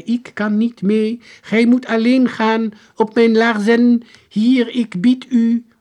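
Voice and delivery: high, loud, slow declamation; stiff, drawn-out proclamation; strange soldier. A narrator's reading. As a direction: announce yourself like an old-time soldier. Strange soldier offers his boots.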